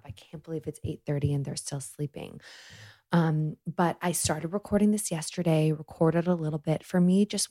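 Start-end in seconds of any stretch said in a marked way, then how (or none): 0.0-2.4 quiet at night. Real, not acted. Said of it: "still gonna talk a little bit quietly".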